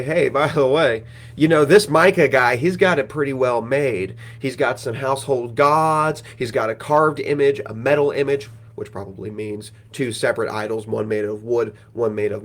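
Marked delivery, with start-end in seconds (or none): 0.0-8.5 brash, eager tip-off to his mates; excited boasting. Retold or imitated. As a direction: sell the loot like a hot rumour. Danites boasting about Micah's riches.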